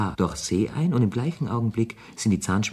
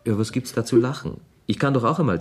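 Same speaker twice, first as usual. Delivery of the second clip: laughing; 3 semitones higher than usual. Acted. Laughing back at Gigi.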